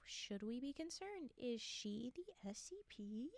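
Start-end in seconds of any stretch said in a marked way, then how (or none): 1.4-3.3 slow conspiratorial whisper. Pretend. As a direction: hush it like a secret. Conspiratorial question about character.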